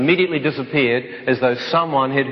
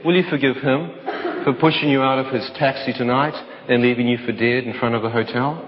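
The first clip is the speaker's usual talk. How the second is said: laughing through the words. Real, not acted. Quoting God, breaks into laughter.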